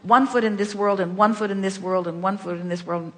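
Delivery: "one foot" stressed in a running loop; emphatic repetition. Shown as a demonstration. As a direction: keep leaning on "one foot" each time round. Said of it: "in other words, emphasis".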